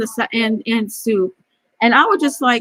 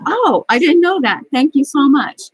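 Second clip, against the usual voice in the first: gushing thanks; 4 semitones higher than usual. Retold or imitated. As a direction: gush your thanks like an eager new hire.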